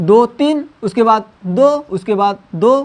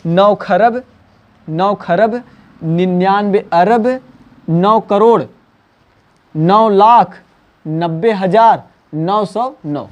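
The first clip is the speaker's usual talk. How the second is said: slow spaced reading; much slower than usual. Shown as a demonstration. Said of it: "तो आप क्या पढ़ोगे".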